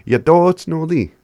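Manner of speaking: Yadotsnoli called out high and loud, bright and cheerful; happy demo. Shown as a demonstration. Teacher showing learners how to sound happy. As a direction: belt Yadotsnoli out like you're delighted. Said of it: "to sound happy".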